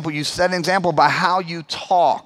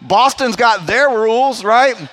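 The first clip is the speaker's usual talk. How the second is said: exasperated protest; 4 semitones higher, 5 dB louder than usual. Retold or imitated. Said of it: "So I'm like".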